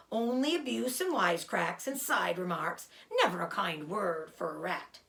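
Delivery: put-on sneering, self-pitying old rat; sarcastic rat voice. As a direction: whine like a spiteful rat.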